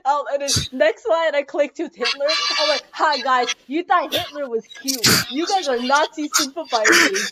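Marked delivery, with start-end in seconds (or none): 2.9-7.3 loud, accusing teacher rant; mock scolding. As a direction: call the whole class out, hammed up. Scolding class as fake teacher.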